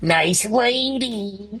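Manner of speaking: put-on high, nasal, childlike voice. Showing how people imitated Jerry Lewis: high nasal voice. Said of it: "this really high nasal voice".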